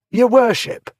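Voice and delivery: high, loud shouted cry. A narrator's reading. Someone in the crowd crying out, loud and high. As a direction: call it out over the mob. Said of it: "took up the cry".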